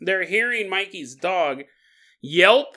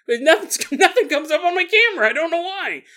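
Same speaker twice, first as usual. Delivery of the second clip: mock puzzled ghost hunter; 12 semitones higher, 6 dB louder than usual.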